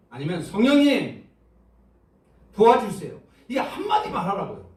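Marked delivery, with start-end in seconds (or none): 0.4-3.2 loud, brief prayer cries; calling out for help. Shown as a demonstration. Preacher models a one-line plea to God, calling out. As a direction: call on heaven for help.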